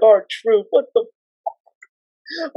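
high, exasperated scream; high disbelieving shout. Retold or imitated. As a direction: yell in disbelief at the ring. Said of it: "I was just screaming at R-Truth".

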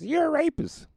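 very high, loud heckler yell; heckler shout. Retold or imitated. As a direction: shout it from the crowd. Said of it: "they just".

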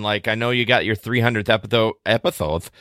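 "epitho-" and "episode" with a lisped th for s; slip into a lisp. Real, not acted. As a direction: say "episode" as "epithode", tongue on the teeth. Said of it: "got a little lisp there all of a sudden".

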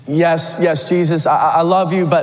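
stammering, pitch climbing as it goes; flustered apology. Acted. Peter at Jesus' feet confessing his failure, stammering apologetically. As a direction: blurt out a pleading confession, tripping over words.

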